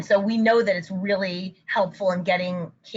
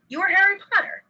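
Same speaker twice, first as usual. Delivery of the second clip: put-on much higher, animated echo to a child; parent's reflection; 12 semitones higher, 4 dB louder, faster than usual. Shown as a demonstration. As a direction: repeat it back with bright interest. Parent reflecting back child's statement.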